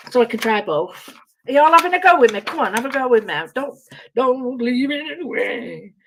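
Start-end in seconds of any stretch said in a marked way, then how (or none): 1.5-5.9 put-on voice. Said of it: "No, I won't with that voice".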